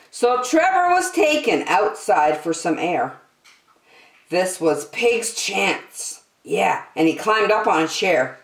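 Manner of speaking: put-on lively storybook reading for kids; story narration. A narrator's reading. The speaker reading a rhyming story to young listeners, animated storybook voice. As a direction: read it like a bedtime picture book, bouncy rhymes. Reads picture book to children.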